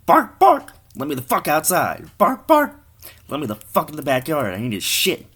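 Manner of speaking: loud, high-pitched talking dog; barking dog. Acted. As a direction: bark the words like an impatient dog. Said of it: "starts barking".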